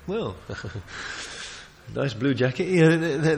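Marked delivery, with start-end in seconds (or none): 0.4-1.5 soft, brief chuckle; low little laugh at his own aside; amused chuckle. Real, not acted. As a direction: chuckle quietly to yourself.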